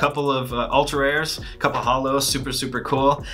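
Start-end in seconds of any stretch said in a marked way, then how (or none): 2.2-3.2 talking with hiccups; hiccuping between words. Real, not acted. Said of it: "I got the hiccups".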